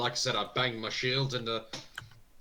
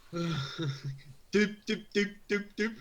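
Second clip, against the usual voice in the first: stuttering noise; 8 semitones higher, much slower than usual. Shown as a demonstration. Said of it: "It's like I stutter".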